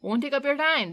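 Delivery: a hearty Cockney delivery man, a touch gruff; Cockney accent. Acted. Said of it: "distinctly Cockney".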